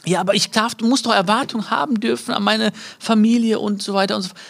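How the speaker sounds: mock the listener who pushes back; voicing an objector. A listener objecting to the speaker, protesting.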